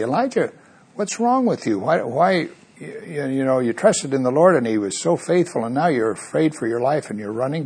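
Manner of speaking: scolding Elijah. Retold or imitated. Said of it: "so easy to say".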